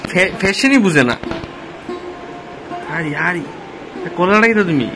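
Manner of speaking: ordinary talk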